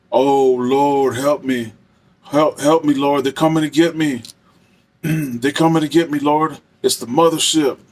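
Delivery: a hint of a terrified prisoner crying out; imitating a frantic inmate. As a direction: mimic a man begging the Lord for help. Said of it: "I'm just gonna imitate him the best I can".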